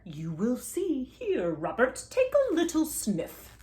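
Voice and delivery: slow coaxing doctor voice; lightly voiced doctor. A narrator's reading. Doctor urging Robert to sniff roses, slow and coaxing. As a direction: coax him gently to sniff. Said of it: "said the doctor".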